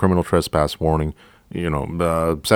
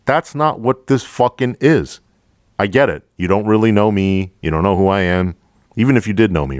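higher-pitched, louder indignant rant, building to the end; retold heated outburst; 4 semitones higher, 4 dB louder than usual. To a fellow trooper who never checked on him, a heated indignant rant. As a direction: let the anger climb as you confront him.

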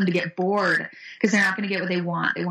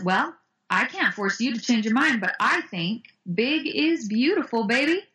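confident; 3 semitones higher than usual. Retold or imitated. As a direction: own it, imitating her confident reply. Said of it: "she was so confident".

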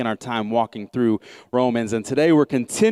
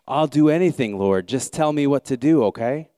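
high, loud pleading promise; plead, ready to do anything; frantic plea; 3 semitones higher, 3 dB louder than usual. Acted. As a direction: Jack begging the Lord for instructions. Jack pleading.

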